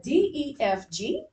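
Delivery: D, E, F, G lifting to a rise on G; question intonation. Shown as a demonstration. Teacher has class repeat after her, rising question tune. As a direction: ask the letters as a question, up on G. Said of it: "notice my voice got, when I read the question".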